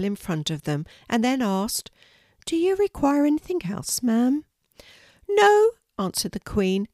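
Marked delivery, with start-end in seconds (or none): 2.5-4.4 maid's voice. Acted. Maid asks the Queen. 5.3-5.7 gracious royal lady, voiced much higher; a kindly Queen welcoming a guest, pitched well up. The Queen inviting a shy girl to tea, high regal voice.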